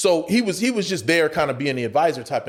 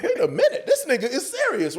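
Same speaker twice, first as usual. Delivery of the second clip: alarmed realisation; 8 semitones higher than usual. Retold or imitated. Alarmed realisation while pinned down.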